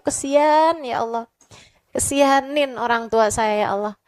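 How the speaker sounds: hushed, earnest plea to God; heartfelt prayer. Acted. Voices a prayer for forgiveness. (doa memohon ampun dengan khusyuk)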